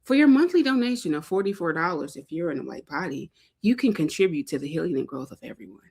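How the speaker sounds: lightly put-on public TV pledge pitch; a hint of earnest pledge-drive announcer; mock PBS ad. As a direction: read it like a PBS donation appeal. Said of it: "I'm gonna sound like a P B S ad".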